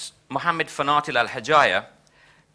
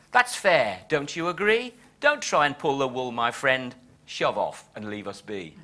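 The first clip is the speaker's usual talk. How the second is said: defiant verse reading, falling off at the close; poem recitation; 3 semitones higher than usual. Acted. Poet answering the well-fed doctor, defiant recitation. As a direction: recite the poet's rebuke in measured rhyme. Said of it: "concludes the poem in his own voice".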